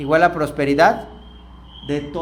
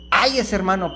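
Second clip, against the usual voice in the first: gentle "Ay, ese hermano" said fondly; kind tone; 2 semitones higher than usual. Shown as a demonstration. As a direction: say it with affection. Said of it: "hay que cambiarlo por".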